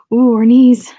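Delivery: hushed, breathy whisper. A narrator's reading. Narrator whispering as Richie notices her knees, hushed. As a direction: whisper it like a guilty secret.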